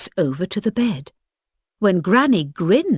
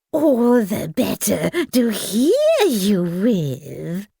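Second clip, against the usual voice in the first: sly wolf voice; slower than usual. Acted. Wolf answers in disguise.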